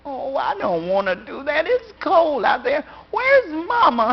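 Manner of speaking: put-on high, pleading little girl; child pleading. A little girl pleading with her papa and asking for her mama, high. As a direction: beg and then ask for mama.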